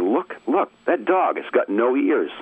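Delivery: put-on kids pointing. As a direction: kid on the corner calling out, mock high voice. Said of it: "and one goes to the".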